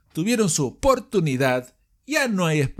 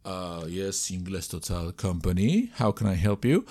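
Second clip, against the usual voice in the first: lower, softer receptionist voice; receptionist answering phone; 8 semitones lower, 5 dB quieter than usual. Pretend. Receptionist in phone role-play.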